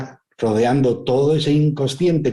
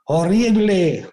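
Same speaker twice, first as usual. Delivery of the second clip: high, slow call into the cave; a boy shouting to hear the echo; child calling out; 5 semitones higher, slower than usual. Retold or imitated.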